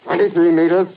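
clipped range calls turning anxious; gunners' rising alarm as the black smoke approaches; tense alarm. Acted. Gun crew as smoke closes in.

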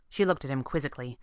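ordinary delivery

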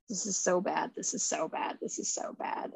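barely breathed, repeating in shock; whispered dread. Retold or imitated. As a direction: whisper it, frozen in horror. Reacting to the body being dumped.

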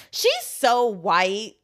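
slow, mocking Caribbean accent; lightly voiced Caribbean kid. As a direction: imitate the girl's island accent, teasing. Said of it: "but in the Caribbean accent".

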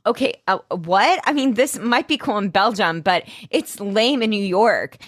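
lightly acted embarrassed panic; mock freaking out. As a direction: imitate someone rattled and defensive. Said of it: "she's freaking out".

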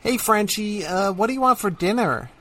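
lightly voiced girlfriend asking about dinner; American girlfriend. Girlfriend asking her partner about dinner, lightly voiced. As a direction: ask casually what's for dinner. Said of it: "Tom was being my American girlfriend".

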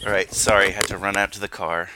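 winded after a dash to the car; out of breath. Real, not acted. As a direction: puff through the words. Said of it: "catching my breath".

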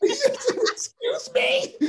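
breathy giggle, very slow and high; laughing whisper. Real, not acted. Echoing his co-host's quip, a whispered laugh. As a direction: giggle it out under your breath.

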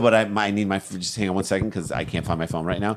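dismissive, trailing to a mutter; distracted brush-off. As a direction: wave them off, still hunting.

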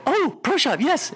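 high, delighted "oh, Pro Shop, yes"; mock thrilled at finally finding it; relieved excitement. Caller hearing the menu option, excited.

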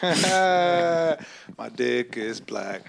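laughing through the words. Real, not acted. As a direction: crack up while saying it. Laughing at friend's joke.

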